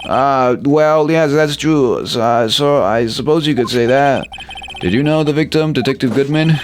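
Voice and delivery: high, pleading rookie cop voice; a jittery officer begging to be seen as the victim; nervous young officer. Acted. Officer begging the detective not to blame him, high and pleading.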